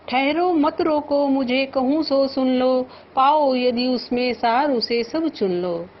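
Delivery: measured, lifted verse recitation; poem recital. Shown as a demonstration. Teacher reciting verse to the class. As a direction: recite the couplet with feeling.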